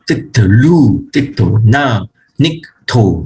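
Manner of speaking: each form with the accent pushed onto its last syllable; final-syllable stress. Shown as a demonstration. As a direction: recite the forms, landing on the end. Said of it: "so I'll put it on the accent so you can see".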